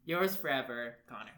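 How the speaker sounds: lightly hammed-up romantic read; love letter reading. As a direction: declaim a mock love letter. Reads the silly love letter aloud.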